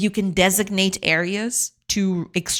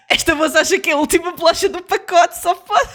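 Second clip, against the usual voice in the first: mocking voice; 10 semitones higher, 4 dB louder, faster than usual. Mocking herself in Portuguese.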